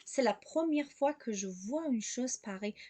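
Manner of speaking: slow exclamation, "première" stressed; exclamatory intonation. Shown as a demonstration. Teacher repeats to show the intonation, slow exclamation with "première" stressed. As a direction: stress "première", then let "pareille" fall. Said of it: "انتوناسیون اینجا خیلی مهمه".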